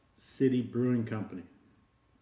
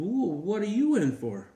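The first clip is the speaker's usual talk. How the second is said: much higher and louder cartoon dog; excited dog voice; 9 semitones higher, 4 dB louder than usual. Dog asks the next patient why he is there, in a high excited voice. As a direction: greet the newcomer with a big whoa.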